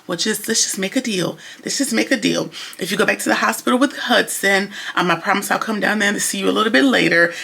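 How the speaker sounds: Andy coaxing Gary, calm and soft; calm and quiet. Retold or imitated. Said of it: "talk to him very calm and quietly".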